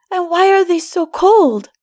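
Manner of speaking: put-on puzzled child pleading; worried child. A narrator's reading. Troubled child asks.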